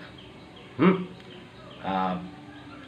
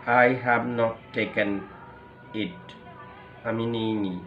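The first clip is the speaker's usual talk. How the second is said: feeble; 3 semitones lower, 8 dB quieter, much slower than usual. Acted. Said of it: "খুব দুর্বল স্বরে কিন্তু সে বলছে".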